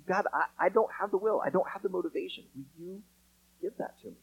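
a humble prayer asking God for the will, fading soft. Pretend. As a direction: pray it quietly, almost under your breath.

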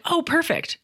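put-on high, sing-song "Oh, perfect" to a small child; bright-voiced parent cooing at a toddler's drawing; mom praising toddler. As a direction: gush it high like praising a four-year-old. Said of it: "I'll just be like".

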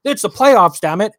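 high, outraged internet fan voice; mock the panicking fans online; mocking angry fan. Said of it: "being like".

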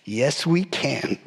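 slow, low, earnest "Yes, we can"; a naive, solemn yes, drawn out; mock earnest disciples; eager agreement. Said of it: "And they're going".

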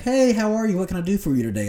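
sing-song fake customer-service cheer; mock sweet cashier. Mocking the cashier who made him wait, in a sugary high voice.

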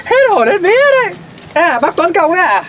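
startled yelp that climbs high and quick; startled, panicky. Acted. Shopkeeper caught off guard by a neighbour, startled. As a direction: jump out of your skin. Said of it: "Thế chú làm gì mà hốt hoảng thế?".

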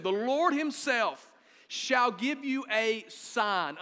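slow, weighty reading of the verse; scripture reading. Shown as a demonstration. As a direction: read each word slowly and solemnly. Pastor reads key verse aloud.

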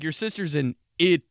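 strained, very loud rising Italy; forcing the word out in agony; pained dad. Retold or imitated. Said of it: "the pain in his face giving in".

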